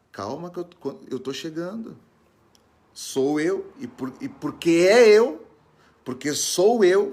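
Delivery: high call building to loud insistence; acted reassuring call. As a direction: call out from afar, swelling on each phrase. Acting Jesus calling that he's coming.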